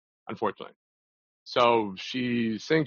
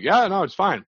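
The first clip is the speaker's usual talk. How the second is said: fake casual; 9 semitones higher, 5 dB louder than usual. Retold fake agreement to girl.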